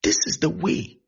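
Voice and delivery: high, loud cries to turn back; urgent calling out. Acted. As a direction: call out urgently to someone going the wrong way. Preacher calls out directions to people.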